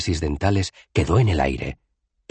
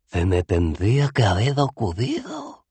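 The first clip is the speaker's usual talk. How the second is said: asombrado; 6 semitones higher than usual. A narrator's reading. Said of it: "La voz de Cohen irradiaba asombro".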